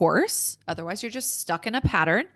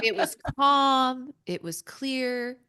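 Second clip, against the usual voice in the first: calm clear voice; 3 semitones higher, slower than usual. Shown as a demonstration. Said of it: "sounded nothing like my critical voice".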